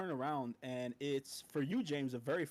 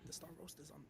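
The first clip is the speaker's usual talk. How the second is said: whispering; 13 dB quieter, faster than usual. Acted. Guard whispering back.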